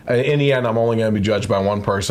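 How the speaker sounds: lightly mock the Texas superintendent in a Texas accent. Podcaster imitates the superintendent's apology in a light Texas accent. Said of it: "that was my Texas accent for him there".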